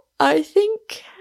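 suppressing a yawn. Moon, questioning the witness, begins a remark while suppressing a slight yawn. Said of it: "suppressing a slight yawn".

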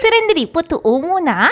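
put-on small, high little child voice. Asked for one last version, saying the catchphrase in a child voice. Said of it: "아이 목소리".

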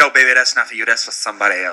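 put-on wrestler drawl. Retelling a wrestler's story, doing a Dusty Rhodes impression. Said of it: "did a little Dusty impression".

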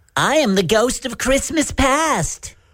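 very high, squeaky animated cartoon-character voice. Playing the spirit answering who it is, SpongeBob voice. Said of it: "Were you doing SpongeBob?".

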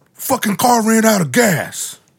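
very high-pitched, really loud yelling. Telling a story about a man stopped in the street, retelling a loud yell. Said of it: "Like yells it really loud".

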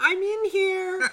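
loud, very high put-on girly voice. Retelling how a guy behind a locked door answered, imitating a girl's voice. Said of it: "he did the like a girl's voice".

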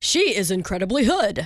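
polished, formal news anchor delivery. Repeating a remark about a woman to a co-host, in a news anchor voice. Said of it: "I felt like a news anchor".

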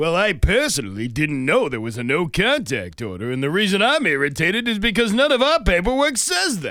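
high, swooping cartoon voice. Retelling a man's answer when asked about violating his bail, in a Fred Flintstone voice. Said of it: "I'm doing my Fred Flintstone voice".

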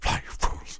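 very quiet, breathy whisper, barely voiced. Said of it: "He kinda whispers it".

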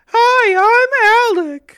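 very high, very loud, squeaky voice. Showing a comedy go-to voice, not an impression: high-pitched squeaky voice. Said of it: "the high-pitched squeaky voice".

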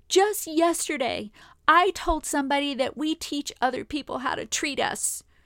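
tearful, weepy speech. Retelling what was said to a husband after a shower: retelling own words while crying. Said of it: "now back to my normal voice".

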